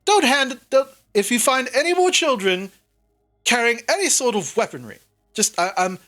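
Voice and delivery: a hint of Sildar giving orders, flustered. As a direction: ramble it like a fussy adult caught off guard. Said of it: "and Sildar just like".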